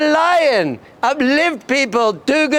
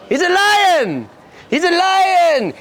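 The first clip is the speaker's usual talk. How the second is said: slow, higher, emphatic declaration; 3 semitones higher, slower than usual. Real, not acted. Teacher answers "what is he", slow emphatic insistence. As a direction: drive it home, stretching the words. Answering own question to audience.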